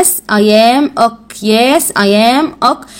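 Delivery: Yes, I am ok said slowly; slow model answer. Shown as a demonstration. Teacher models the answer slowly for her pupil. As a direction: answer slowly so he can copy. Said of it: "هنرد نقول إيه؟".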